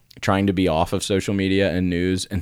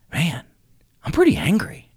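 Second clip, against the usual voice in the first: mock angry; 9 semitones higher than usual. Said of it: "and I was like".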